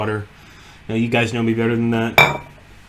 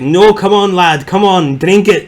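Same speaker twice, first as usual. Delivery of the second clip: high, loud imitation of a pushy drinking pal; insistent coaxing; 7 semitones higher, 8 dB louder than usual. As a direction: press the drink on him, pitched up and loud.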